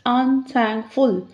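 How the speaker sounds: "Unthankful" slowly in three beats, un, thank, ful; split into parts. Shown as a demonstration. Teacher making syllables easy to count, "Unthankful" slowly split un-thank-ful. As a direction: separate "Unthankful" into prefix, root and suffix with pauses. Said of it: "easier to count the syllables".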